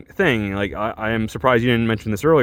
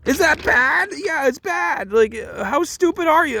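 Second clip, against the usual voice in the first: mock dumb JoJo. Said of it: "And I was like".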